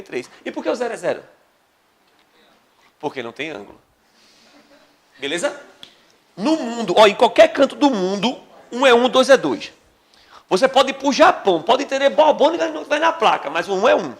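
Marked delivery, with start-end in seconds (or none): 6.4-12.7 loud, high, insisting it is universal; emphatic insistence. Real, not acted. Teacher insisting to the class, loud and emphatic. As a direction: hammer the point home.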